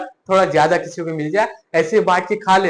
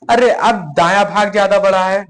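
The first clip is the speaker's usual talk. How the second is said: slightly raised, indignant storyteller's cry; mild shouted protest; 4 dB louder than usual. Acted. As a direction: call out the complaint without a full yell. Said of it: "चिल्ला कर कहा".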